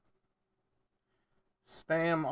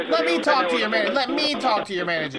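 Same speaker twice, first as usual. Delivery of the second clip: mock pleading; 4 semitones higher, 4 dB louder than usual. Mocking the caller's manager demand.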